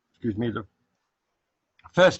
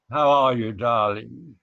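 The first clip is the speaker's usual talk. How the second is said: a hint of a posh British accent; lightly put-on British greeting; 4 dB louder, slower than usual. Asked for a British phrase, mild British accent. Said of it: "what's the most British thing you can say in a British accent".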